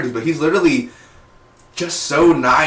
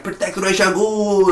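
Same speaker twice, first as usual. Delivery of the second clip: higher, urgent imitated order; mock command; 7 semitones higher than usual. Mimicking Sarah ordering guards, mock urgency. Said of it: "And she's like".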